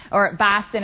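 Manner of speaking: light local Boston pronunciation; touch of a Boston accent. Acted. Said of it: "as we say, right? I love that. I love good accents, the Boston".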